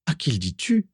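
said through a yawn. Acted. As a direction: yawn while speaking. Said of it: "dit Vera en bâillant à son tour". (en bâillant)

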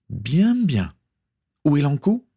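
high-pitched captain demanding an answer; pirate captain interrogating; questioning pirate captain. A narrator's reading. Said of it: "questionna la capitaine pirate".

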